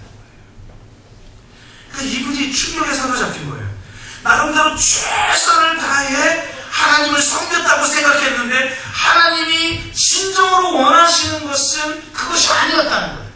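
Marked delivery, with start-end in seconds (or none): none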